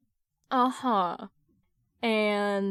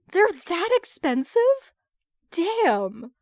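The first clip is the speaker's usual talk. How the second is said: high, slow shocked squeal; high-pitched stunned reaction to the price; shocked disbelief; 9 semitones higher, 6 dB louder, much slower than usual. Acted.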